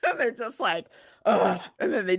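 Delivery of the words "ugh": imitated kid's grudging "ugh"; exasperated groan. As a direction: groan like a child giving in. Imitates kids grudgingly giving in.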